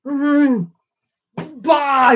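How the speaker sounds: exaggerated slurp and disgusted "bah"; imitated yogurt slurping. Imitating daughter slurping her yogurt, exaggerated eating noises. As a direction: mimic noisy slurping in revulsion. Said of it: "she's slurping her yogurt".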